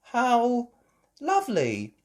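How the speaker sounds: high, drawn-out smiling coo; smiling delight. Acted. Mother seeing her surprise breakfast, smiling. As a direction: say it through a smile, lingering.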